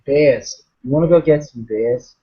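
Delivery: put-on Australian accent with lazy tongue; casual Aussie accent, vowels changed. Shown as a demonstration. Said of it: "try to do an Australian accent".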